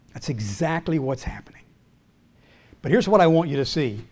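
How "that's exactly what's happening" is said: whispered aside. Real, not acted. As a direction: drop to a whisper, almost to yourself. Soft aside after question.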